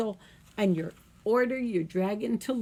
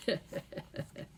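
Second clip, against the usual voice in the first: dragon snicker; 6 dB quieter than usual. Acted. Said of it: "you'll hear your dragon snicker".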